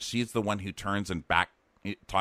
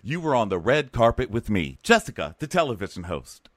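lightly hammed-up presenter; mock television host sign-off, slightly raised; wannabe TV host; 4 semitones higher than usual. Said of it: "She's like".

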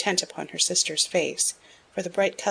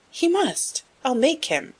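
threatening; 8 semitones higher, 3 dB louder, slower than usual. A narrator's reading. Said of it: "shook her head threateningly".

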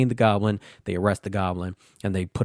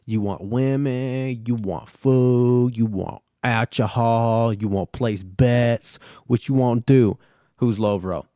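slow, drawn-out put-on barkeep voice; lightly hammed-up brushing-off barkeep; mock barkeep; 2 semitones higher, slower than usual. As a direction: play the shifty barkeep, slowly and evasive. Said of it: "He's like".

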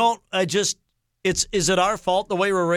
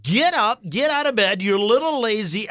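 scolding; 3 semitones higher than usual. Retold or imitated. Scolding sleeping teen son.

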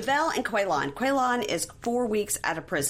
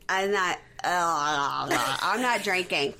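slow drawn-out; slower than usual. Retold or imitated. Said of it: "she goes".

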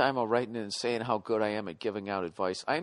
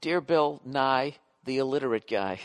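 botched joke read; 3 dB louder than usual. Shown as a demonstration. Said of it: "I blew it because I can't read out loud".

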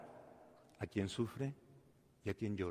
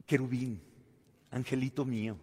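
sweet pet names; 4 dB quieter than usual. Acted. How spouses address each other.

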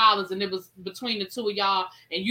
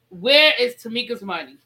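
loud demand; 7 dB louder than usual. Acted. Proclaiming the hashtag demand.

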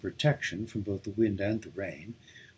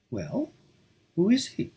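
insisting; 14 semitones higher than usual. A narrator's reading. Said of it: "I insisted".

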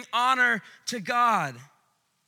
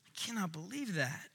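soft, awestruck murmur; hushed awe; 10 dB quieter than usual. Acted. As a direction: let the wonder take your breath. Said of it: "angels are just looking down like".

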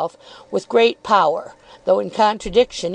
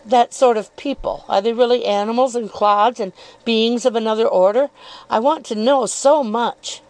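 lightly raised, coyly probing voice; insinuating Miss Dartle; 3 semitones higher than usual. Acted. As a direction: feign innocence while needling.

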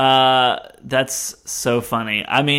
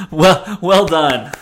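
loud praise; 11 dB louder, slower than usual. Real, not acted. Applause after the reading.

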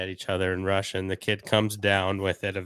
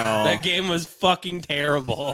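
chuckling through the complaint; laughing; 8 semitones higher than usual. Real, not acted. Laughing at friends' joke about his awful game, giggling.

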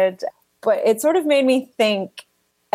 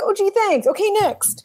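mock bored thanks; 10 semitones higher than usual. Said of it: "You're like".

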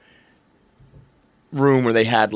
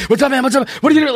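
high, frantic talking-dog voice; mock puppy yelling, pitched way up; screaming puppy; 11 semitones higher, faster than usual. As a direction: yap it like a wild puppy pestering its owner. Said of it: "like, screaming at you and yelling at you".

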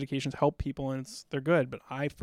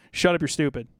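a touch of a gruff recruiter, louder; recruiter's blunt line; 3 semitones higher, 5 dB louder than usual. Retold or imitated. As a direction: bark it lightly like a drill recruiter. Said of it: "one of his famous lines".

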